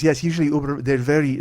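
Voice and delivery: imitated Mexican accent at normal pitch; heavy Mexican accent. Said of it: "she had a really heavy accent".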